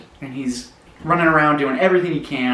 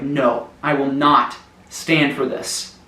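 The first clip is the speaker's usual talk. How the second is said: slow determined anger; slower than usual. Acted. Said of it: "he starts to get so mad".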